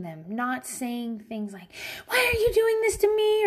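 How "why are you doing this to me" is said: high, whining mock cry; whiny crying. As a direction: wail it like a self-pitying parent. Whiny parent reaction mocked.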